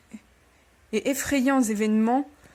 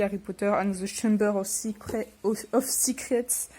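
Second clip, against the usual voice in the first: reading English with a French accent; French-accented English, title read aloud; attempted English accent; 4 dB quieter than usual. Real, not acted. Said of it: "mon accent anglais est toujours aussi bon".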